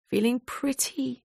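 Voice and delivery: breathy ashamed whisper. Acted. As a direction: barely voice it, ashamed. Nia confessing, ashamed.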